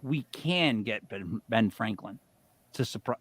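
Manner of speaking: low, soft, halting mutter; retold mumble, dropping in pitch and volume. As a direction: mutter it out haltingly, barely finishing. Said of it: "all I muttered out was".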